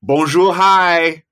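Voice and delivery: a playful, teasing bonjour. Acted. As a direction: sing it out like a cheeky hint. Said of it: "All I'll say is".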